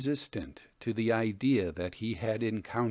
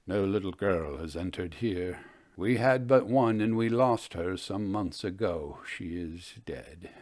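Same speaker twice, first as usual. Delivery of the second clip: grieving father; 4 semitones lower than usual. Acted. Grieving father voiced in story.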